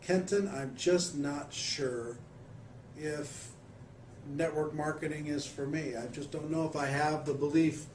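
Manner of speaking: hesitant, with pauses between phrases; lightly acted doubtful newcomer; unsure prospect. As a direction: play a friend with doubts, haltingly. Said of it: "pretend somebody is, is looking at that camera and saying".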